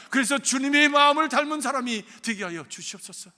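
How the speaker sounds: fervent prayer. Acted. Pastor praying aloud for his congregation, swelling from hushed to loud. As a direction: pray from a murmur up to a full-voiced plea.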